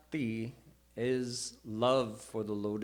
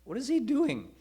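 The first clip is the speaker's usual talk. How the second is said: surprised lion; 6 semitones higher than usual. Retold or imitated. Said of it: "he said".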